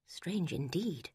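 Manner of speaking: soft, very slow, worried murmur; worried inner thought. A narrator's reading. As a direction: think it to yourself with unease. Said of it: "Eleanor thought worriedly".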